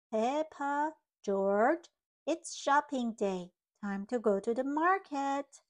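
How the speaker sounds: loud mom call across the house. Acted. Mommy Pig calling Peppa and George, loud call.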